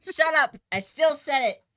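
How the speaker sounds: high, loud laughing protest; playful shout. Real, not acted. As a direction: yell it back in fun. Repeated playful yell.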